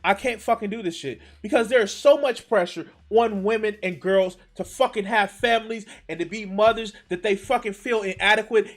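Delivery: high, loud exasperated outburst; furious disbelief, voice way up and loud; outraged rant. Real, not acted. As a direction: explode in disbelief and keep pushing. Outraged rant at feminism claim.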